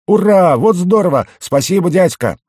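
put-on high, loud childlike cheering; jubilant. A narrator's reading. Goblin thanking the sergeant for using his bait, jubilant.

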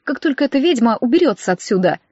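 plain reading voice

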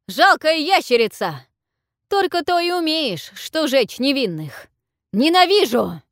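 furious yell. A narrator's reading. Young Tyaru screams at the dragon, furious yell. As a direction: scream your hatred at the beast. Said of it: "Тьяру вскочил и заорал".

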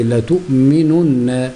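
لا تؤمنن read very slowly, syllable by syllable; slow careful recitation. Shown as a demonstration. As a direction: draw out لا تؤمنن and press the doubled nun. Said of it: "نقراها بقى نقول إيه". (قراءة لا تؤمنن ببطء شديد مع شد النون)

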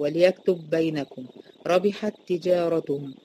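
slow recitation of وليكتب بينكم and ربحت تجارتهم with each doubled letter pressed together; slow Quran recitation. Shown as a demonstration. Teacher repeating the examples slowly for students. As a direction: draw it out slowly and merge the twin letters. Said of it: "أدي ت وت، ب وب".

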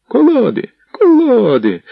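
high, loud urgent cry; shouting voices. Acted. Crowd at the gate shouting for logs, loud urgent yell. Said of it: "почулися голоси".

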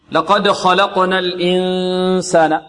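slow recitation with a long hidden نون in الإنسان; ikhfa. Shown as a demonstration. Teacher recites to introduce the rule, ikhfa. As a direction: hold a nasal hum before the س of الإنسان. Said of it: "إخفاء".

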